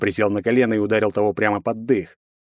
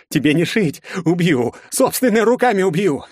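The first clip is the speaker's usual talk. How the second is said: louder, higher raving threats; helpless rival swearing revenge; vengeful threat; 9 semitones higher, 4 dB louder than usual. A narrator's reading. Побеждённый грозит. (со злобой)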